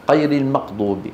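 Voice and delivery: غير المغضوب with each غ said as q; Qaf-mixed Ghain. Shown as a demonstration. Teacher imitating some regions' speakers, غ as q. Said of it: "فيها قاف".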